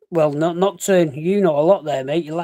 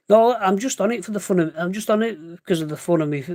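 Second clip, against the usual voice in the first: higher-pitched, mildly exasperated sarcasm; sarcastic retort; 4 semitones higher than usual. Acted. Answering family who doubt he needs treatment, sarcastic. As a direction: answer back with mock agreement.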